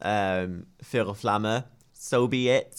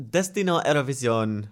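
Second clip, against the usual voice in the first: Spanish accent; 3 semitones higher than usual. Shown as a demonstration. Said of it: "my fantastically spoken Spanish accent".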